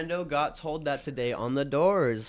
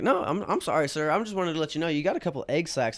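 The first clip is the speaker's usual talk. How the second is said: higher, louder nervous fake apology; mock apology; 5 semitones higher, 5 dB louder than usual. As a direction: back away politely from the man. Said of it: "And I'm like".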